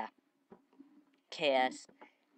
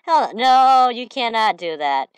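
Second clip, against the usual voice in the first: higher and louder, hell no punched; mock outraged shout; 6 semitones higher, 7 dB louder, slower than usual. Gamer retells yelling at tower wreckers, mock outraged. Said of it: "I'm like".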